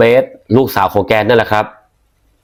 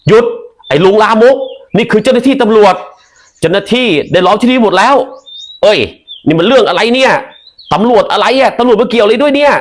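police shout; 10 semitones higher than usual. Acted.

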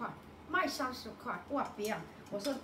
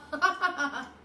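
laugh; 3 semitones higher, 6 dB louder than usual. Real, not acted. Laughing at own joke.

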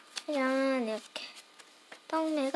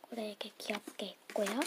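quick hushed whisper; 속삭이듯 빠르게; 4 semitones lower, 11 dB quieter, faster than usual. Real, not acted. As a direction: breathe it out quickly, no voice. Hushed sticker reveal.

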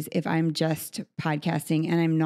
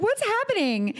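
stunned crying guest; 14 semitones higher than usual. Retold or imitated. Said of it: "they're crying and they're like".

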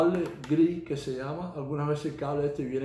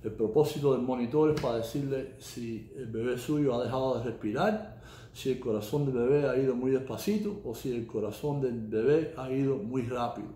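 Spanish with an American accent; Spanish spoken as a second language with an American accent. Real, not acted. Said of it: "mi español no es el mejor del mundo".

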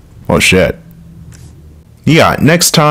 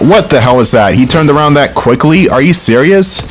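startled disbelief, rising higher; real incredulous outburst; 5 semitones higher than usual. Real, not acted. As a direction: react in higher-pitched disbelief. Enemy suddenly turns around on player.

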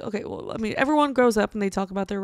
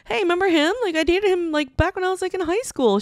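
teasing mom; 9 semitones higher than usual. Retold or imitated.

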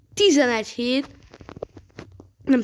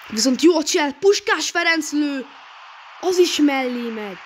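excited commentary; 4 semitones higher than usual. Real, not acted. Gamer commentating an attack.

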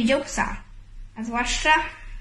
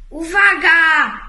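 sudden loud, drawn-out warning cry, high; alarmed shout; 5 semitones higher, 11 dB louder, much slower than usual. A narrator's reading. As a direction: yell the warning at the group. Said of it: "zerwał się z krzykiem". (głośny, przeciągły okrzyk ostrzegawczy)

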